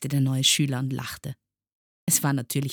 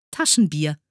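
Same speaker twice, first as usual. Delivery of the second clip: proudly announced name, louder; 2 semitones higher, 7 dB louder than usual. A narrator's reading. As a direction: present the name with pride. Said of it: "sagte das Sams stolz". (stolz verkündend)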